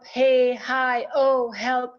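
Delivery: loud hollering calls; calling for help. Shown as a demonstration. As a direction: shout out for help to show the breath. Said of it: "hollering, asking for help".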